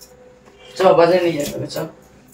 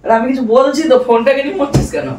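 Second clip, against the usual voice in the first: higher-pitched, fed-up nagging; exasperated scolding; 4 semitones higher than usual. Acted. Man scolding silent partner over the phone, exasperated. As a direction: scold someone who keeps ignoring you.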